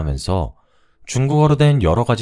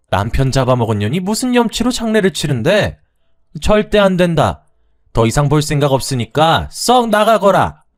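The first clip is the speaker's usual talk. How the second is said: high, loud furious yell; yelling mother-in-law; 7 semitones higher, 4 dB louder than usual. Acted. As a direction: shout her out of the house for good. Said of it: "끝까지 고함을 지르길래".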